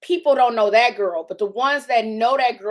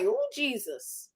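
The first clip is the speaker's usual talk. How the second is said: mock gasp; 3 semitones higher, 9 dB quieter than usual. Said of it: "you be like".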